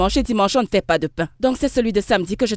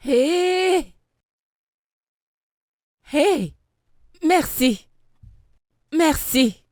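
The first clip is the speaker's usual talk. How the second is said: excited cheer; 8 semitones higher, much slower than usual. Acted. Baker cheers alone.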